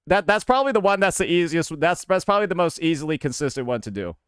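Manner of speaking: put-on Southern accent; casual Southern-accented speech. Shown as a demonstration. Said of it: "when I use my southern accent".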